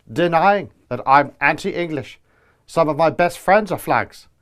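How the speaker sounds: flat monotone robot politician; robotic delivery. Acted. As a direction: read it like an emotionless machine. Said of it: "Starmer's robotic delivery, lack of character".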